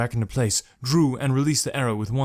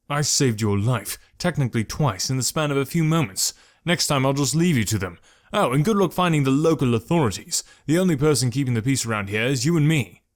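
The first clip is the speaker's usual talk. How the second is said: angry reply; 3 semitones higher, 3 dB louder than usual. Acted. Malik angrily rebukes Jekrom, advancing on him. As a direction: let the anger out, advancing. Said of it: "couldn't stop the angry reply".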